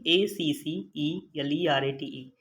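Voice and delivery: slow letter-by-letter एसीसीईएलईआरएटीई; spelling out letters. Shown as a demonstration. Teacher dictating the spelling of accelerate to students. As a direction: say each letter of एसीसीईएलईआरएटीई slowly and clearly. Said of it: "इसकी spelling जो है वो बहुत important है".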